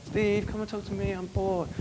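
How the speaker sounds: a hint of a whiny clubgoer; bored girl. Girl tugging Steve over to chat, softly whiny. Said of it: "They'll be dragging you up".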